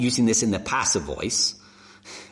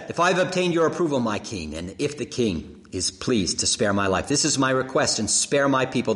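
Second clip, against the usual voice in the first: rehearsed plea; 4 semitones higher than usual. Acted. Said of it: "She says the great line that she's probably rehearsed".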